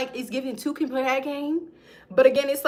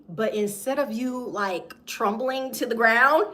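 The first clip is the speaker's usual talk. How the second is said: ordinary talk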